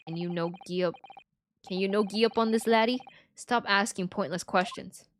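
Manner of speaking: grumbling makeshift Scot; uncertain Scottish accent. Acted. Game character telling laddie to give up, Scottish accent. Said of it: "I have no idea what that accent is".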